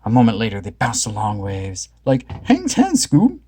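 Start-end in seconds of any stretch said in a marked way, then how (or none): 2.1-3.4 high excited call; surfer Shaggy. A narrator's reading. Shaggy cheering Scooby on the board, high and excited. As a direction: cheer him on. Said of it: "Shaggy said".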